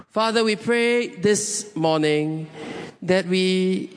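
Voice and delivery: unhurried, earnest prayer voice; closing prayer. Real, not acted. Pastor praying over the congregation, earnest and unhurried. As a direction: pray it aloud, gently trailing down at the ends.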